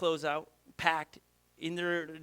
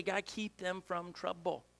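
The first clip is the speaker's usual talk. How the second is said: soft, slow earnest prayer; quiet prayer; 6 dB quieter than usual. Retold or imitated. Pastor voicing the church's prayer, soft and slow. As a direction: pray it gently under your breath. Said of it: "We just say".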